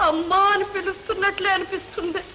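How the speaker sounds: tearful grief. Acted. Mother grieves for lost daughter.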